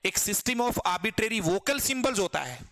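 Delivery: very slow, each word spaced; slow definition. Shown as a demonstration. Teacher reciting the definition slowly to students. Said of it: "repeating definition slowly".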